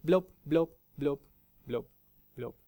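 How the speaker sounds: blub sounds dying away one by one; fading bubbles. Shown as a demonstration. Preacher showing a spring running dry, fading bubbles. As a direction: let each blub trail off with pauses. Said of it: "es macht dann manchmal nur noch blub".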